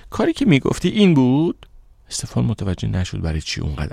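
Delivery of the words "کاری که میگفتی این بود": sharply higher, louder accusing question; angry question. A narrator's reading. Aisha confronts Stefan about the banner, angrily and loud. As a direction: confront him with anger. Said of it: "با عصبانیت پرسیدم".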